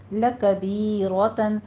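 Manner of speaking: لَکَبِیرَةً slow, with a heavy full ra; لَکَبِیرَةً recited slowly with a full ra; Quran recitation. Shown as a demonstration. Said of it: "را کو مفخم کرنا ہے".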